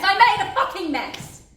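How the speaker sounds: high, loud cry; admitting her failure in a burst; despairing shout. Acted. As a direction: break out in despair. Despairing outburst.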